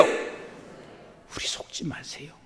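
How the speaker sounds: slow hushed whisper; whispered, very slow warning. Real, not acted. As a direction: drop to a slow breathy plea. Sudden hushed plea.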